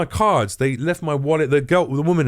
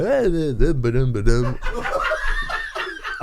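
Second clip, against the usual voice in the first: goofy humming; 2 semitones higher than usual. Retold or imitated. Mimes walking down the driveway.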